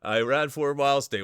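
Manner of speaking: put-on a loud, playful try at Trackstar's accent; hammed-up Trackstar accent; attempted Trackstar accent. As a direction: poke fun with a rough guess at Trackstar's accent. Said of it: "I wish I could do their accent".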